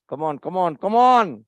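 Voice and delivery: a loud, impatient come on; irritated. Real, not acted. Surgeon urging the stuck instrument, loud and irritated. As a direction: urge it on, losing patience. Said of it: "I'm getting irritated".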